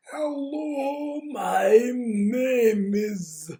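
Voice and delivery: very slow, drawn-out wail, high and loud; Lenny the Zombie. Acted. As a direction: moan every word out long. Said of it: "different zombie voices".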